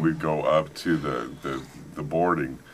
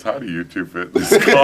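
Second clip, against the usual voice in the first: louder quote with a laugh in it; laughing trooper; 2 semitones higher, 7 dB louder than usual. Retold or imitated. Trooper laughs at two tall men, laughing. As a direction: laugh through the trooper's question. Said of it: "the guy starts laughing and he goes".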